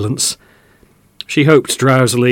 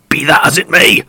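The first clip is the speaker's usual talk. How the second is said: shouted; 5 semitones higher, 5 dB louder than usual. Acted. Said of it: "shouted another voice".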